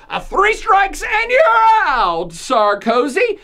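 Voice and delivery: hammed-up title shout, stretching Out, Sarkozy. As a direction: boom out the episode title like a ring announcer. Announcing the podcast title.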